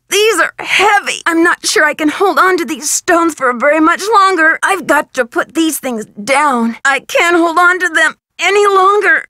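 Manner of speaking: effortful, labouring voice; straining under weight. Acted. Character struggling to hold heavy stones, straining. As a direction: push the words out while holding a heavy load.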